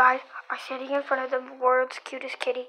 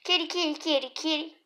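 calling a cat; 3 semitones higher, faster than usual. Real, not acted. Calling kitten.

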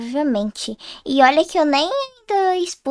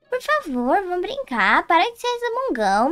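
whiny pleading; 5 semitones higher than usual. Acted. Sister pleading to play.

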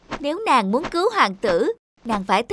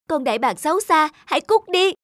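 angry outburst; 4 semitones higher than usual. Acted. Princess shouting at the wicked eagle, angry. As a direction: spit out the order to leave.

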